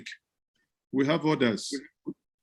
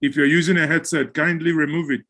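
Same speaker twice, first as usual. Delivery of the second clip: raised voice; 4 semitones higher than usual. Real, not acted. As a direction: speak up to a faint caller. Host repeats for faint caller.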